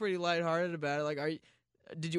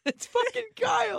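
mock Kyle voice. Mocking Kyle's name.

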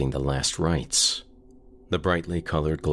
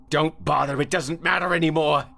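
much higher, straining despair; despairing cry; 13 semitones higher, 4 dB louder than usual. Acted. Carl tells Sam to stop reading, despairing cry. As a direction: plead in hopeless panic.

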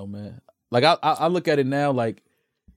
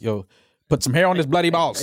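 mock Irish grandparent; jokey attempt at an Irish accent; 2 semitones lower than usual. Irish grandparent offering the child tequila, mock Irish accent. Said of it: "Nobody heard Maul's Irish accent".

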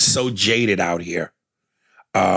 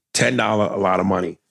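lightly mocked African accent; a hint of an African accent, teasing. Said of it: "I'm going to do it".

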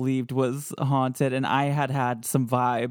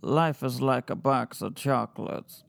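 ghost voice reading; 2 semitones lower than usual. Shown as a demonstration. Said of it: "Or D".

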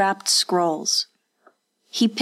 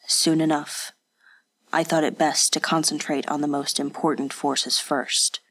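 a hint of a cold, dispassionate spy, lower; understated dispassionate spy giving his report; lightly voiced spy; 3 semitones lower than usual. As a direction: report it flatly like a hired informer. Kage character answers.

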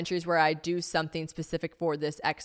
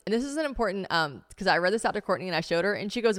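ordinary talk

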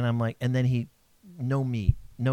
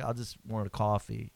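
mild meek complaint; 6 semitones lower, 9 dB quieter than usual. Retold or imitated. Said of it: "and I said it like that".

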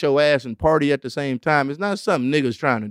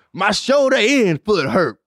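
slow, higher mocking read of the example; 5 semitones higher, slower than usual. Mocking the dictionary example, slowly. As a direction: sneer the example sentence out slowly. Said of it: "Who wrote this".

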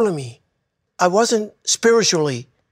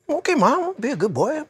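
a lightly voiced eager little boy, higher; young boy answering; 9 semitones higher than usual. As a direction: answer like an obedient small boy. Boy answers his dying mother.

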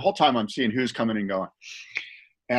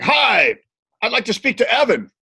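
pitched high and loud, cheery visitor; chirpy hello; 9 semitones higher, 4 dB louder than usual. Retold or imitated. Dale asking the receptionist for Evan, high sing-song.

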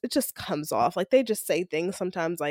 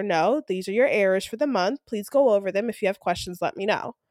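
even, businesslike email read-out; polite, matter-of-fact notice to a coworker; totally professional. Retold or imitated. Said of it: "Being totally professional".

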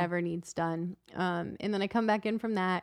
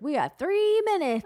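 imitating husband; 10 semitones higher, 5 dB louder than usual. Husband voiced in story.

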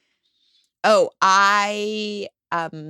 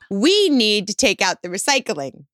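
passive aggressive. Shown as a demonstration. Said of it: "in a very passive aggressive way".

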